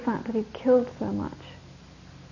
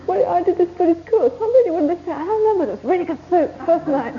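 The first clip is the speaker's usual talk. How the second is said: mock student voice; 7 semitones higher than usual. Mocking a course participant.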